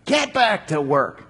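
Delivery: stern command. Acted.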